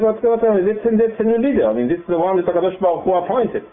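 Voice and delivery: indignant protest. Acted. Teacher protesting the tribes' tone toward the new leader, high and offended. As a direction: protest that he is the chosen one.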